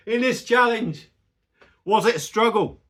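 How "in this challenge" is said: high laughing, slow; laughing through the words; laughing harder. Real, not acted.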